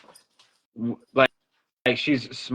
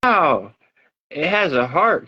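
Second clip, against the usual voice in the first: put-on child's amazement; 4 semitones higher, much slower than usual. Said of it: "And she goes".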